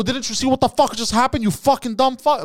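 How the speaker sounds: incredulous high-pitched rant; angry yelling. Retold or imitated. Driver berating old man over what just happened, yelling. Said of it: "Like, I'm yelling".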